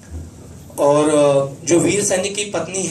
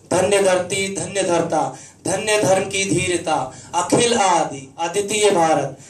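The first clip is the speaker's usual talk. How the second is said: measured, rhythmic Hindi verse delivery; stately stage poetry with lingering line endings; poem recitation. Acted. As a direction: recite patriotic verse with each phrase deliberately shaped. Recites own patriotic poem.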